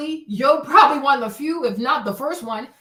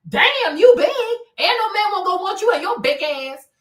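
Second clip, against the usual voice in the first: loud, high-swinging mean ridicule; harsh mockery; 3 semitones higher, 4 dB louder than usual. Mocking black women about their weight, loud and mean. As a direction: jeer loudly like a tactless critic. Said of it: "How does that help people?".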